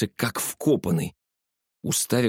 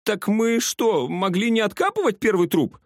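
stunned; 12 semitones higher than usual. A narrator's reading. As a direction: drag it out, dumbfounded. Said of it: "обомлел Кики". (ошеломлённо, медленно)

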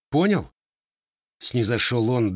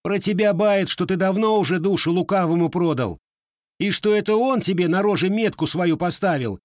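heated accusation; 9 semitones higher, 3 dB louder than usual. A narrator's reading. Boy accuses Matvey heatedly.

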